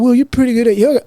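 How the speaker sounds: high, easy surfer-dude compliment; teacher praising the student, high surfer-dude voice; California surfer dude. Retold or imitated. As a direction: praise him like a relaxed beach bro. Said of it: "total California surfer dude".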